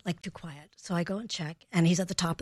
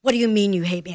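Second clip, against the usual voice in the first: mock angry parent; 6 dB louder, faster than usual. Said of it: "That will inflame them".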